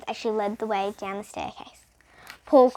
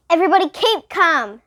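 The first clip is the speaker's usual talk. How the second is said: higher, louder firm teacher; teacher calming; 6 semitones higher, 7 dB louder than usual. A narrator's reading. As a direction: call the class to order. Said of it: "said Miss Jules".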